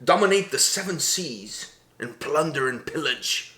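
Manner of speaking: loud swaggering pirate boast. Acted. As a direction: boom it out like a pirate captain. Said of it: "that was a pretty good pirate voice".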